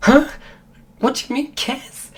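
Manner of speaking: a high, puzzled "what do you mean"; confused. Retold or imitated. Friend baffled by the question, high confused echo. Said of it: "She was, like, really confused".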